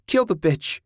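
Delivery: shrill it out like a frenzied egger-on; screeching. A narrator's reading. Julie urging Ted on, screeching. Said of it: "Julie screeched".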